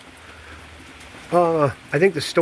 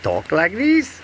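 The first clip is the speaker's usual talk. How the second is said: higher voice demo; 5 semitones higher, slower than usual. Shown as a demonstration. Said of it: "I can do all kinds of things".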